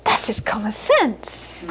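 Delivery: slow, soft, offhand verdict; a hint of a shrugging old mum, drawn out; matter-of-fact mother. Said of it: "She'd say".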